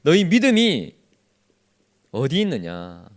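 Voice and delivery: slow, solemn scolding question; rebuke. Acted. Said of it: "이건 분명히 책망이잖아요".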